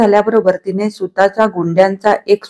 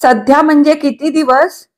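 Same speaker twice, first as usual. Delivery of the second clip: a much higher, anguished plea; heart-wrenching; 6 semitones higher than usual. A narrator's reading. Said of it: "पिळवटून टाकणाऱ्या स्वरात म्हटले". (पिळवटून टाकणाऱ्या स्वरात प्रश्न)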